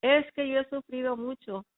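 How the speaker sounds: a mother crying out that she has suffered; retold shouting mother. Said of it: "Lo que ella gritaba era".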